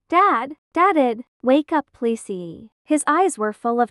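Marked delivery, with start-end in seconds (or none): 0.1-2.7 a touch of crying in the voice; tearful plea. Acted. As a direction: beg his dead father to wake up. Son finds his father dead.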